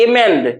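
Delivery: एमेंड with मेंड held longer and falling; stress on last syllable. Shown as a demonstration. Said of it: "last वाले पे हम लोग ज्यादा देर रुक रहे हैं". (एमेंड के आखिरी "मेंड" पर रुककर ज़ोर)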